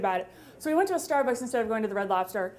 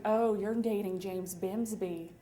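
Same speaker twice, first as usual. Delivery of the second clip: laughing pity; 4 semitones lower, 7 dB quieter, slower than usual. Retold or imitated. Cousin teasing about the date.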